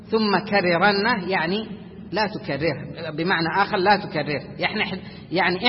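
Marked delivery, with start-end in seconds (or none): 0.1-1.3 ثم كررنه recited slowly with a clean single ra; slow quotation. Shown as a demonstration. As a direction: quote the verse slowly. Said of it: "معنى قوله". (ثم كررنه بتلاوة بطيئة)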